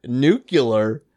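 "Nuclear" said NOO-kyuh-ler; variant pronunciation. Shown as a demonstration. Explaining the accepted variant of "Nuclear", NOO-kyuh-ler. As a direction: put a yuh before the L in "Nuclear". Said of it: "as pronounced".

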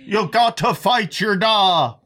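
put-on high, slow Irish accent with laughter; mock Irish accent. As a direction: drag it out in hammed-up Irish. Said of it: "That's what they say".

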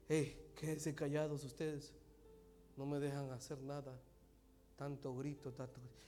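near-whisper sermon, breathy and soft; hushed whisper preaching. Acted. Preacher showing God's whisper, hushed throughout. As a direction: preach as if telling a secret.

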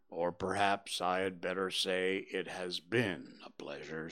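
put-on mope through it like a gloomy old donkey; gloomy Eeyore. Eeyore's speech.

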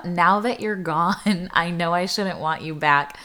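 song lyrics spoken. Real, not acted. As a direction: read the bridge gently, fade to a whisper. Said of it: "going into the bridge now".

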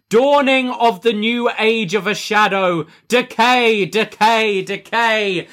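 high, slow, hammed-up villain incantation; slow theatrical villain menace. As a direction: intone it like a cult leader. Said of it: "Crazy Steve says that it is time to rejoice".

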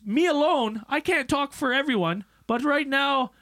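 a hint of a country beekeeper; imitating a hillbilly beekeeper at a town hearing. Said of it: "he goes".

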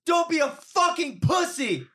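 high, drawn-out jeer; mock taunting woman. Woman goading the boxer, high mock taunt. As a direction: imitate her goading, high and slow.

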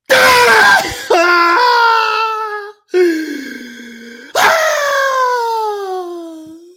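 long loud sobbing wail, voice cracking high; imitated wail. Retelling a friend's sobbing at a sad movie, loud wail. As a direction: let out a huge crying howl.

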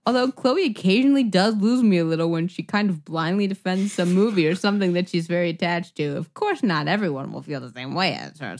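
lightly performed reading of a fan review; a hint of a live dramatic reading; review read aloud. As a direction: read it out like a letter to the hosts. Reads a listener review aloud.

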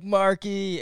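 milder retold happy name call; a touch of mock excitement on the name; excited greeting. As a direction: imitate a pleased hello, lightly. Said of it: "But you were like".

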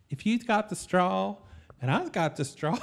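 effeminate Southern gentleman. Acted. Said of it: "feminine Southerner instead".

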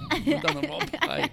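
strained, holding back a cough. Real, not acted. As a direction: squeeze it out past a cough. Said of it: "holding in the cough".

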